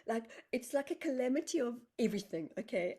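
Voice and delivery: reliving the overwhelming moment; excited. Real, not acted.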